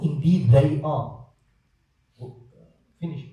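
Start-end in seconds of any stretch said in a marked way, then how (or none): 0.0-1.2 "indeed they are" spelled out slowly, each word weighted; slow, punctuated "indeed they are"; emphatic punctuation. Shown as a demonstration.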